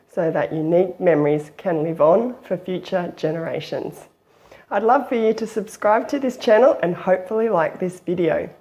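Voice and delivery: hoarse voice from the flu; croaky voice. Real, not acted. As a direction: talk through a croaky, raspy throat. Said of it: "I have got a bit of a croaky voice".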